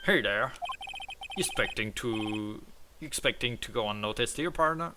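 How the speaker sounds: lightly voiced game character, lifting on the last word; Gumshoe. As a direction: read it as a lively character calling out. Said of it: "Oh, that's not Gumshoe".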